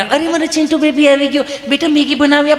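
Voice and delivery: high, sweet coaxing mother voice; doting mother. Retold or imitated. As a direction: coo at the child like a doting mum. Mother coaxing her pampered child.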